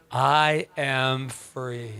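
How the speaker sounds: very slow, deliberate vow. Shown as a demonstration. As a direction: draw each word out. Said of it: "Can you say it with me?".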